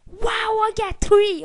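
high, loud whoop; excited cheer. Real, not acted. Gamer whoops high and loud after getting three kills. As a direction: crow over the triple kill.

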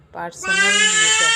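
high, loud angry shout; a shrill-pitched outburst; shouted retort. Acted. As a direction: yell it back at her sister-in-law. Indu snaps at Tania.

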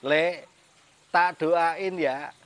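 mock blessing, drawn out slowly; slow teasing wish, punched at the end; imitating mother teasing. Mother teasing her child with a prayer, slow mock blessing. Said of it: "ibu saya sambil ketawa ngomong gini".

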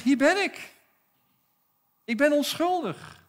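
Daniel calling back up to the king. Retold or imitated. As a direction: call "Hier ben ik" up to the king. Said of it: "roept terug naar de koning".

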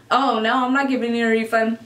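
offhand, quick brush-off; unbothered mock dismissal; retold carefree refusal. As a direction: wave it away casually, as if quoting. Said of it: "like, carefree".

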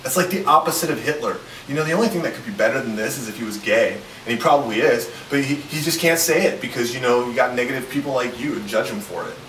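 loud, preachy self-righteous tone. Acted. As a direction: lecture loudly with smug indignation. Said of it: "in the most self-righteous tone I can muster".

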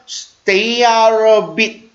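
slow "stay out of it", F in "of" nearly dropped; barely heard F. Shown as a demonstration. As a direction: link "stay out of it" slowly as stay-arob-it. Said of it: "of에서 F 발음은 잘 안 들립니다".

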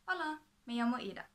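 a quick beginner's Spanish introduction. Shown as a demonstration. Showing viewers her new Spanish, in Spanish. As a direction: say it in learner's Spanish. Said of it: "just started to learn Spanish".

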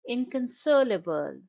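"inconsolable" stressed on SOL; in-kun-SOL-uh-bul for "inconsolable"; third-syllable stress. Shown as a demonstration. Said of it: "the stress is on the".

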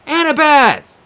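loud calling shout; yelling. Acted. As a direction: call out for her. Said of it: "I yelled".

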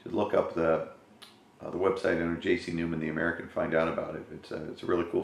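words around a cigar; talking with cigar in mouth. Real, not acted. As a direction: lips holding cigar while talking. Seen 4: Cigar at lips 0.2–2.1 and again 6.3–7.3; away mid-stretch.

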